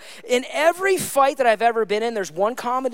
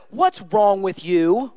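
mild mock accusation; 6 dB louder, much slower than usual. Shown as a demonstration. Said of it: "instead of".

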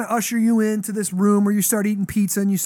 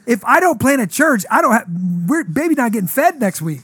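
louder and higher, urgent rant; frantic venting; 6 semitones higher, 6 dB louder than usual. Retold or imitated. Unloading to the stranger about needing to plant a church, frantic. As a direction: pour out the pressure of providing. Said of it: "I'm like".

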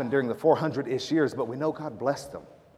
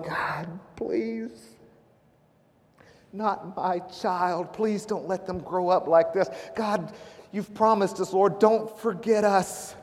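acted desperate prayer, high-pitched and building louder; broken pleading; 6 semitones higher, 4 dB louder, slower than usual. Preacher voicing enslaved Hebrew men praying, broken, pleading cry. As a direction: beg God as a broken parent, high and slow. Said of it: "they were broken".

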